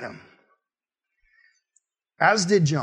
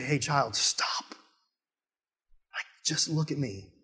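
hushed, much softer voice of God; gentle command; 2 semitones lower, 10 dB quieter, much slower than usual. Acted. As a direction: quietly stop them, almost under the breath. God gently stopping a child.

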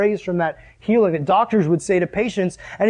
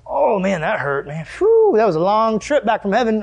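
put-on groggy girl; 2 semitones higher than usual. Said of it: "she doesn't just get up and go".

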